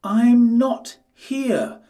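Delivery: high, slow, loud piglet voice; a little pig pretending not to be there. A narrator's reading. Quintin hiding from the wolf, high and slow piglet voice. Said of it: "said Quintin".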